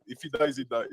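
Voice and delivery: low-pitched Russian accent; put-on low Russian voice. Shown as a demonstration. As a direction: deliver it in a deep Russian accent. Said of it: "if I say with the Russian accent".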